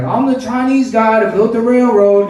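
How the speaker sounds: a hint of a singer's crooning; mock lyric in a singer's style. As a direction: belt it like a cheesy anthem. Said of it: "a song where he's like".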